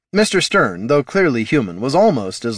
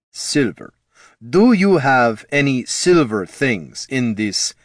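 put-on Ruskin accent; 3 semitones higher, slower than usual. Stern's accented voice, spelling it out.

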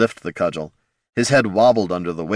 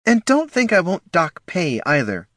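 high, sharp gnoll snarl at staff; 10 semitones higher than usual. A narrator's reading. Missus Herc snarling at her staff, angry high snarl. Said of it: "Feista Herc snarled".

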